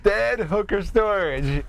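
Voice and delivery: a hint of an indignant Tarantino; Tarantino impression. Quoting Tarantino's Pulp Fiction role, lightly voiced. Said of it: "Quentin Tarantino's".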